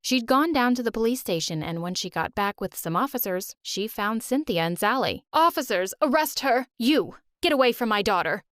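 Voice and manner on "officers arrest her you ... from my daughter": angry mother. Acted. Mother thinks child kidnapped.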